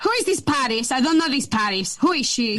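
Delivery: lightly mimicked Portuguese-accented mum; mum's Portuguese accent. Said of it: "that's a scary accent right there".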